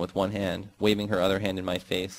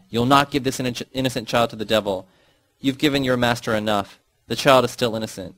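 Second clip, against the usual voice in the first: mother's scream; 3 dB louder than usual. Acted. Mother berating her daughter with a broom, raised and scolding.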